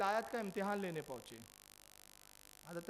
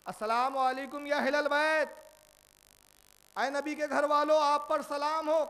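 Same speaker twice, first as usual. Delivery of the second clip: loud, raised greeting called from outside; calling out at the door; 6 semitones higher, 10 dB louder than usual. Acted. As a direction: call the greeting out so the house hears. Salman greets the household at door. (دروازے پر بلند آواز سے سلام)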